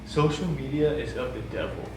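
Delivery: imitating her, mildly dramatic and deliberate; retold extreme pronouncement. Teller quotes her shutting down the social media question, mildly extreme. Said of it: "I didn't say it like that".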